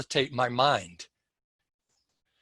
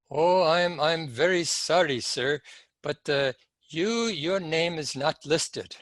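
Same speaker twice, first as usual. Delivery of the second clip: lightly voiced apologetic clerk, a little raised; imitated airline clerk; 2 semitones higher than usual. Clerk to passenger at the Pan Am counter, lightly imitated apology. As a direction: give a hint of a regretful airline clerk. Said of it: "clerk there behind the counter, airline clerk".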